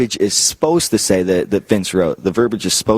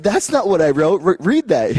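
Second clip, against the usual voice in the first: exasperated Vince; 8 semitones higher than usual. Retold or imitated. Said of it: "Vince is like".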